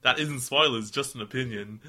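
put-on laughing Milwaukee-ish accent; mock Milwaukee accent. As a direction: drift into a Milwaukee twang. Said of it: "You went to Milwaukee just then".

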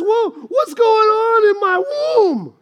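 high, drawn-out wailing shout; slow, hammed-up wail rising on the last words; anguished cry to God. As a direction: act out a desperate mother crying out in prayer. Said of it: "So she prays. She goes to God".

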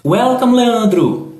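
bright, high, loud welcome; excited greeting. Real, not acted. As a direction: call out a cheerful welcome. Greets a student warmly. (saudação animada e alta)

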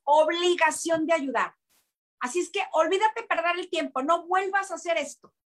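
stern self-talk. Retold or imitated. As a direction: count off reasons to snap out of it. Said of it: "me lo dije a mí misma".

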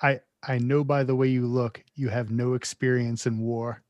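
low, straight-faced movie quote; unsarcastic movie line. Retold or imitated. Co-host reads out the film's line, straight and without sarcasm. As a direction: quote it in earnest, pitched a little down. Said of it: "it was not delivered as sarcastic".

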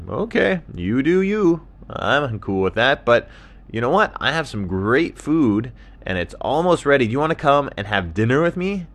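upbeat animal character voice; friendly dingo, inviting. Acted. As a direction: offer dinner eagerly.

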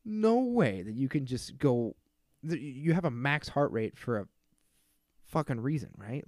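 mock outrage at the doctor; retold angry disbelief. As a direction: tell him off like he's crazy. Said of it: "I said".

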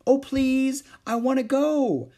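very high, loud begging; little kid begging to come along; pleading girl. A narrator's reading.

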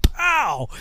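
loud, high "pow" of a blow; impact noise. Retold or imitated. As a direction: punch it out like a comic-book hit. Imitates hitting his forehead.

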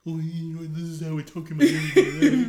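mocking voice. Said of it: "a person that has just that voice".

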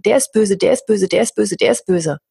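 mildly mocking blame-everyone chant; mock complaining. Mocking people who blame the whole world, lightly. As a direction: lightly parody someone pointing fingers. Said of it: "über alle Menschen wettern in der Welt und sagen".

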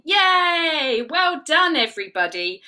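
high, happy cheer. Real, not acted. Cheering children after counting.

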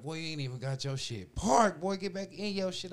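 high, loud, frantic; freaking out at himself, high and loud; panicked self-talk. Retold or imitated. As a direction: rattle it off in a panic.

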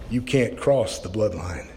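low, slow, heavy voice from the dark; dark booming voice. Retold or imitated. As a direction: boom it out like a hidden judge. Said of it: "dark, booming voice said".

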